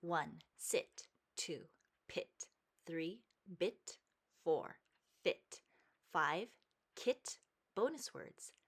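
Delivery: numbered words read one by one with pauses; slow school dictation. Shown as a demonstration. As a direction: read the numbered list for the class. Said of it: "Let's read".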